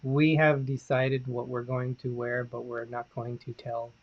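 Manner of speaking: slow, even robotic delivery. Real, not acted. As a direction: talk like a robot. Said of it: "Why are you talking like a robot at times?".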